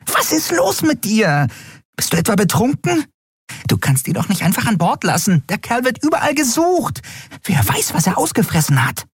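hohe, aufgeregte Frauenstimme; hoch und empört, fassungslos; aufgebrachte Freundin. Acted. Nelen voiced high throughout. (hohe, empörte Stimme der Freundin)

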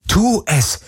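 high urgent inner cry; inner scream. Acted. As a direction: scream it from inside. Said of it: "schrie alles in ihr". (innerer Schrei)

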